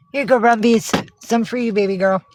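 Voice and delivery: high, sweet voice for the kitties; bright little treat-giving voice; pet talk. Real, not acted. Feeding the cats, pet talk.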